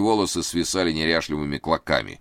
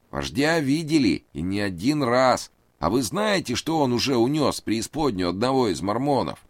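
high, anxious pleading man; nervous high voice; 9 semitones higher than usual. A narrator's reading. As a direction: raise the pitch, plead nervously. Reid voiced.

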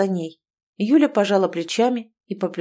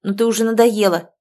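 a fed-up yell, louder throughout; shouting at her friend; 2 semitones higher, 5 dB louder than usual. Acted. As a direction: snap at the whiny friend, run out of patience. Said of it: "заорала на неё Юля".

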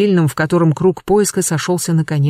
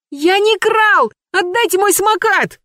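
put-on boy howling. A narrator's reading. The boy howls at the men for his scooter. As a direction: howl like a wronged kid. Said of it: "вопил мальчишка".

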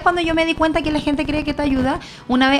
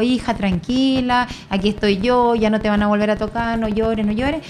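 slow, gentle reassurance; calm a crying child, unhurried; retold soothing mother; 2 semitones lower than usual. Mother crouches to comfort her daughter, soothing.

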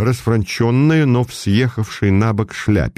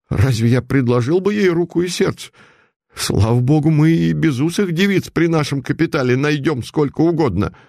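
lightly voiced silly young groom, a touch higher; young merchant's son; 5 semitones higher than usual. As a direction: bristle like a smug rich boy. Молодой Русанов отвечает Путилину. (слегка озвученный сынок купца, чуть выше)

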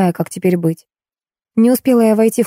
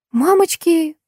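high-pitched startled exclamation; oh-no gasp of dismay in words; 11 semitones higher, slower than usual. A narrator's reading. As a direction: cry out as if suddenly remembering. Prop woman suddenly remembers her work.

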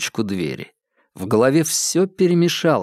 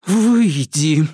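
hoarse with rage; 3 semitones higher, 3 dB louder than usual. Acted. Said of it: "осипшим от ярости голосом приказала Ирма".

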